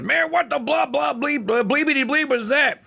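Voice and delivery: a cop yelping in disbelief; startled cop. Retold or imitated. Host retells the cop's shocked reaction in a high squeal. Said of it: "the cop goes".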